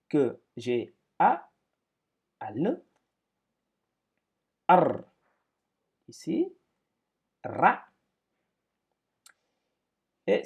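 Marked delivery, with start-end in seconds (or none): 0.1-7.8 slow, loud sounding out of each syllable; slow syllable reading. Shown as a demonstration. Teacher reading Arabic syllables slowly for the class. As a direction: read the syllables slowly and loudly. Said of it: "Donc, ceci dit".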